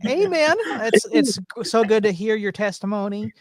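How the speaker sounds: hammed-up Southern church brother; Southern preacher. Mock Southern preacher welcome.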